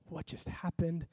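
dazed. Retold or imitated. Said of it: "still kinda, like, spun".

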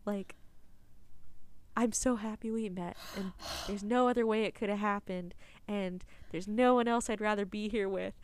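calm her down gently while the world ends; hushed comforting. Retold or imitated. Retelling the hero comforting her.

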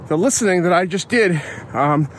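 out of breath after climbing a hill. Real, not acted. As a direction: talk while still catching breath. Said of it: "Sorry, I'm huffing and puffing".

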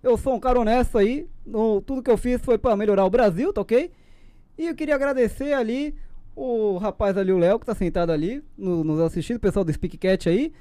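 lightly voiced president speech; a hint of a folksy politician; Bolsonaro impression. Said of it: "Bolsonaro vai morrer".

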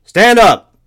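high, loud bellow over engines; jumpmaster barking cues. A narrator's reading. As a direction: bark the command down the plane. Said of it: "Dick Pole's voice suddenly fills the tube".

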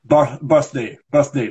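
birthday said with a clear TH, the first syllable repeated; model pronunciation. Shown as a demonstration. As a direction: demonstrate birthday slowly for the student. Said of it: "What about T H".

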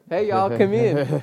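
high, loud, drawn-out greeting; welcoming call-out. Acted. Shop owner beckoning customers onto the bus, calling out. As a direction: call folks in, stretched out and high.

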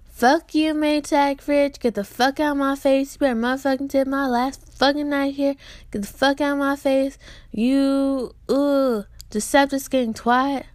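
hammed-up rant, pitched high; pretend telling off. Vlogger imagines cussing out predators, angry. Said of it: "I will be like".

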